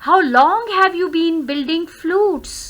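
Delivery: "long" lifted in "How long have you been"; rising intonation. Shown as a demonstration. Teacher reading an exercise question, rising intonation. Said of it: "Rising intonation".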